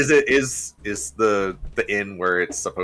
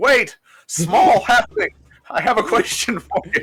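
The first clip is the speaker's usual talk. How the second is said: shrill, very high, loud shout; 12 semitones higher, 5 dB louder than usual. Playing Griffin calling after a halfling who walked off: crying out. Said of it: "Griffin will cry out in halfling".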